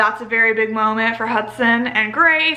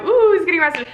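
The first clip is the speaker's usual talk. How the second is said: higher-pitched mocking "ooh"; mock alarm; 5 semitones higher, 4 dB louder, faster than usual. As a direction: play up a teasing, scandalized reaction. Mocking the idea of an arrest.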